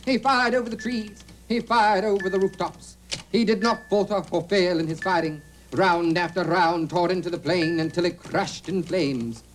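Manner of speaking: declaimed war report; measured, rhetorical delivery; emphatic recital. Shown as a demonstration. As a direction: proclaim each exploit with emphasis. Demonstrates emphatic writing by declaiming it.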